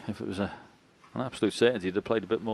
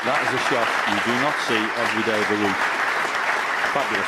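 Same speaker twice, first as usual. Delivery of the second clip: fast, loud burst of praise; excited; 2 semitones higher, 5 dB louder, much faster than usual. Real, not acted. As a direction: rave about the shot. Commentator reacts to brilliant shot.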